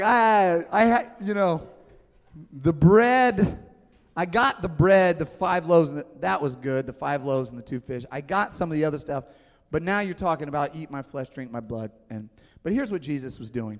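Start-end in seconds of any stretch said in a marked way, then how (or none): 0.0-11.9 stammering, louder then fading, hammed-up bafflement; flustered disciple. Disciple struggling with the teaching, flustered stammering. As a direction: fumble for words like a confused follower. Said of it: "They're like".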